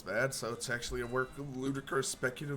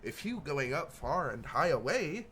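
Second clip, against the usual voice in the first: a higher goblin voice in broken grammar, stretching the words out slowly; rambling goblin; 4 semitones higher than usual. Acted. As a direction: babble it like a strange little goblin dreaming of travel. Gary asks to come along.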